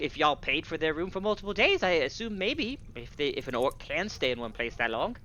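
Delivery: high-pitched tavern keeper voice; flustered tavern keeper. Acted. Game master voices tavern keeper.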